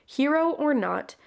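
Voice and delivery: measured blurb reading; storyteller's read-aloud with deliberate phrasing; story narration. Real, not acted. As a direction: read out a fantasy book's back cover. Reads the book's blurb aloud.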